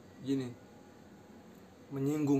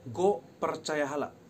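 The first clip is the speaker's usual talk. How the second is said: "Gue percaya hala" louder and slow; loud slow demo; 5 dB louder, slower than usual. Shown as a demonstration. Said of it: "Logatnya gini".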